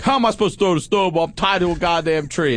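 high, fast indignant protest; mock outraged kid voice; indignant brother. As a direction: squeal the unfair accusation. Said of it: "He's like".

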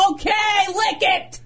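shout. Retold or imitated. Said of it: "and you're like".

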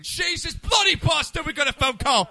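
high, loud English outburst; mock British accent. Host spotting a caller, mock British shout. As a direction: curse in a hammed-up British voice.

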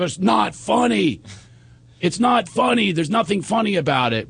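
hammed-up "how dare you" protest; indignant protest. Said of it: "that's what people always said to me".

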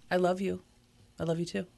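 everyday affection. Acted. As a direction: say it gently to a partner. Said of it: "I say".

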